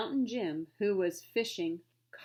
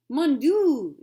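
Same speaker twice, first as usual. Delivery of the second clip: loud, higher French cry; declared; 6 semitones higher, 13 dB louder than usual. Acted. Frenchman despairing over his grapes, loud cry. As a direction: throw up your hands and cry out. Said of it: "declared the Frenchman".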